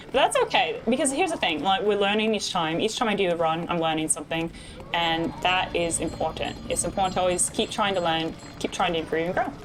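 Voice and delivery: put-on British accent, conversational; bad British accent. Streamer explaining the game to chat, bad British accent. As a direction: talk chat through it in mock British. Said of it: "this is my bad British accent".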